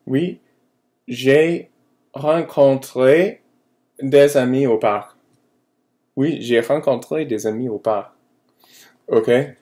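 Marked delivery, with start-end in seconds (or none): 0.0-5.2 each word slow, high and loud for learners; slow model answer. Shown as a demonstration. Teacher modelling the answer to her students, slow and clear. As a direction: spell it out slowly so the class can copy. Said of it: "And a response".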